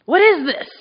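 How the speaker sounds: amazed. Retold or imitated. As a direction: let the wonder rise on the second ask. People amazed.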